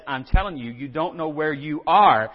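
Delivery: loud, insistent telling-off; exasperated wife. Acted. Preacher voices wife to lost driver, exasperated. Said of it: "your wife says".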